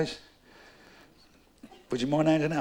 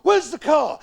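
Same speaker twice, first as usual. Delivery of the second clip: put-on high, loud, slow drunken yell; slurred drunken shout; 12 semitones higher, 5 dB louder, slower than usual. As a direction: bellow it, slurring.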